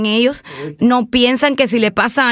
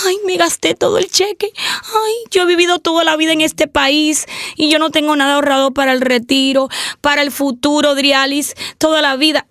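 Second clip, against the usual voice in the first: half-hearted crybaby whine, raised pitch; mock whining lament; 3 semitones higher than usual. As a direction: whimper it like someone crying over money. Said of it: "no nos podemos quedar llorando".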